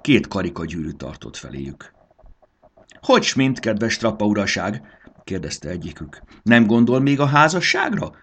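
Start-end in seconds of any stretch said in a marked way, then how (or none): 3.0-8.2 nosy rings. A narrator's reading. Rings pestering about marriage.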